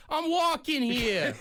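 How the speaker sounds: put-on high, slow New York tough-guy accent; hammed-up New York cabbie, slow. Mocking a New York narrator, slow hammed-up New York accent. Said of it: "listening to a book that's like".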